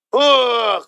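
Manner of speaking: long drawn-out groan of complaint; mock groan. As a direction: imitate a moaning whiner. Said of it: "βογκάει". (κοροϊδευτικό βογκητό)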